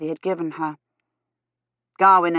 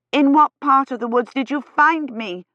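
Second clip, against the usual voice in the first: much higher, urgent question; voice rising; 8 semitones higher, 3 dB louder than usual. A narrator's reading. Kivrin pressing to know where she was found, voice rising high. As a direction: lift the voice high and press for an answer. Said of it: "her voice rising".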